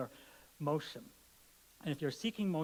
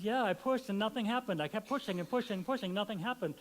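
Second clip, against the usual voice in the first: exasperated complaint; 7 semitones higher, 5 dB louder than usual. Pretend. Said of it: "He says".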